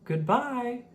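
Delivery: high, carried call of farewell; calling goodbye. Acted. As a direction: call it after the departing sled. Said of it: "stood calling".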